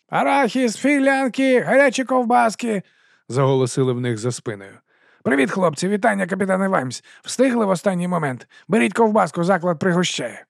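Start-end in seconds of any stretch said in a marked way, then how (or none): 0.1-2.8 high sing-song street hawker cry; vendor's call. Acted. Vendor crying wares in crowd. 5.2-10.4 higher, eager huckster voice; chummy sausage seller greeting the watch; fast-talking street vendor. Acted. Narrator voices Dibbler.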